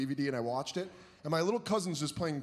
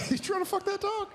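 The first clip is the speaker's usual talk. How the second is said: incredulous. Acted. Mock accusing the broadcaster.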